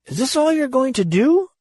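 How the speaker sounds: put-on high, stammering bleat of a frightened boy; bleated disbelief. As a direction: bleat it out in shock. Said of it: "he bleated".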